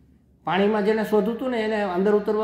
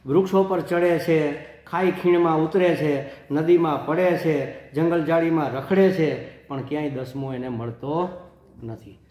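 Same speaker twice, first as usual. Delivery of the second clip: slow recitation; 2 semitones lower, slower than usual. Shown as a demonstration. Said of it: "આમાં મેં લખ્યા છે".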